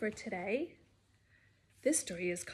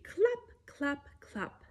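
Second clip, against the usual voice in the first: horse hooves; 3 semitones higher, slower than usual. Pretend. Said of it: "like horse feet".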